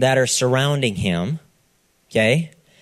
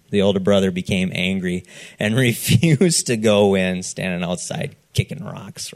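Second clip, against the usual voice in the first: mock pouting; 4 semitones lower than usual. Preacher hamming up the older brother's sulk, mock pouting. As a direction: pout like a sulking older brother. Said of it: "Show me a frowny face".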